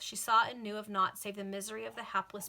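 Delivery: measured, lilting novel reading; formal audiobook-style narration; story narration. A narrator's reading. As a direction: read it out like an old serial. Reads a novel aloud.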